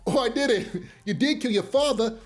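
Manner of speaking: imitated line broken by chuckles; laughing through quote. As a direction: crack up halfway through the impression. Cracks up while quoting Tommy.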